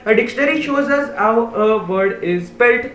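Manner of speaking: slow, deliberate reading of a definition; slow read-aloud. Shown as a demonstration. Teacher slowly reading the dictionary definition to pupils. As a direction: spell out each word for the class.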